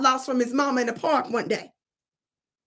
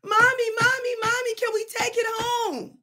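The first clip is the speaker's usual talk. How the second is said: put-on high, crying little boy voice; little boy begging mother to keep it; whiny child plea; 9 semitones higher than usual. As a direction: whine and beg like a toddler. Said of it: "child begging again".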